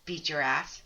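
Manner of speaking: mock-discreet, hushed relay of blunt words; confidential aside. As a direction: drop it low and slow, as if on the quiet. Imagines medium relaying blunt words.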